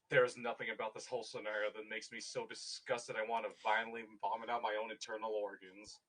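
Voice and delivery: low, menacing, controlled rage; a vengeful warrior's threat; seething character voice. Acted.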